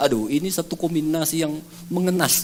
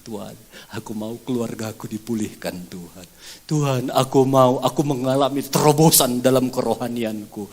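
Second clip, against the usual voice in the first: prayer voice building. Acted. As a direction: pray from hushed to fervent.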